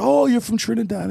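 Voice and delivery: very high, playful exclamation; a hammed-up high "oh"; exaggerated realization. Retelling his reply to the woman, exaggerated high-pitched realization. Acting out own reply to her.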